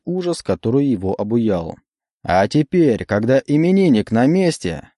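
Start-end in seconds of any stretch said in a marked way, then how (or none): 2.2-4.9 emcee. Acted. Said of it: "снова заговорил конферансье".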